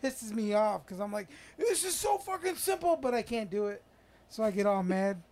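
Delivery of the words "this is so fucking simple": higher, mock exasperated outburst; retold frustration. Retelling his rage at the hard puzzles, mock exasperation. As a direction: act fed up with an easy puzzle.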